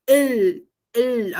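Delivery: "il" with a held L, tongue on upper teeth; final Korean L. Shown as a demonstration. Teacher demonstrating tongue placement, held L in "il". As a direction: let "il" rest on a clear L. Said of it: "a língua nos dentes superiores ali".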